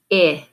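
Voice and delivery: I as the short "ih" in pin; isolated vowel sound. Shown as a demonstration. Teacher giving the new vowel, I said as short "ih". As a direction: say I as a lone "ih", not "eye". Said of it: "change the vowel sound".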